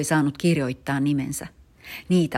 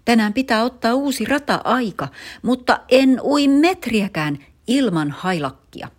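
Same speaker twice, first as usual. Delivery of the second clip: high, loud panicky wail; a kid shrieking that he won't swim; boy refusing to swim without his lucky cap, shrieking; panicked shrieking; 9 semitones higher, 7 dB louder than usual. Acted. Tarmo panics over lost cap.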